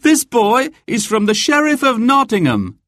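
put-on high, accusing young man. A narrator's reading. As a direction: report it firmly. Will voiced by narrator.

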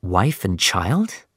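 slow, soft question rising at the end; surprised question. Acted. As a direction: echo the words in quiet disbelief. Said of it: "I asked".

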